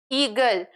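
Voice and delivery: eagle sounded out with a long opening "ee"; thorough pronunciation. Shown as a demonstration. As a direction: say eagle carefully as ee-gul. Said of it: "you have to pronounce thoroughly". (eagle को "ई-गल" साफ़ बोलें)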